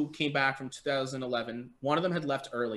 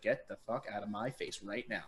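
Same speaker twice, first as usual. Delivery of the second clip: low threat; 4 semitones lower, 9 dB quieter than usual. Retold or imitated. Retold face-to-face confrontation.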